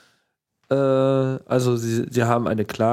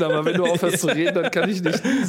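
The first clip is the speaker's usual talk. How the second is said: laughing; 5 semitones higher, faster than usual. Real, not acted. Joking about suppressed sneeze.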